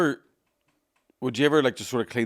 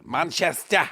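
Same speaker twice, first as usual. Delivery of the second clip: failed Manchester accent attempt; 3 semitones higher, much slower than usual. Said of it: "I can't do the voice".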